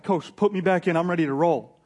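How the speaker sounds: loud, eager player's plea; fired up. Acted. Paul asks coach to send him in, fired up. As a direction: beg to get back in the game, raring to go. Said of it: "he's fired up".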